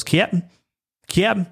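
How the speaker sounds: lightly imitated Florida drawn Southern accent; Trip. Fan imitating Trip addressing his captain, Florida accent. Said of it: "Trip always goes".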